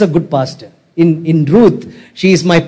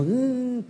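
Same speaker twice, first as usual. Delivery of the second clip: soft high whimpering hum; quiet mock whimper; mock crying; 8 semitones higher, 15 dB quieter than usual. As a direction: imitate a TV-serial weep, small and high.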